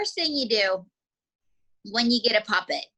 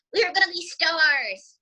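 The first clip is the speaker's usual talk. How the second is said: higher-pitched mock-dramatic exclamation; excited; 5 semitones higher than usual. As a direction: play up the starry-eyed hope. Recalls big hopes dramatically.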